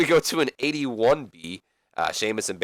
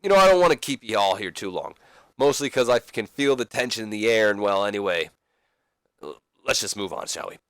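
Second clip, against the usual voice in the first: Roddy Piper. Acted. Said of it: "Roddy Piper looks at all of them and says".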